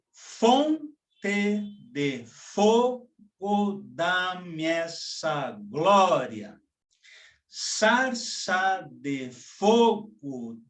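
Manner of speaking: very slow, "Fonte de fogo" stressed on the first beat; solemn scanned reading. Shown as a demonstration. Teacher reading a Mário Faustino poem aloud, slow and solemn. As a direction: intone each line like an invocation. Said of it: "nós lemos".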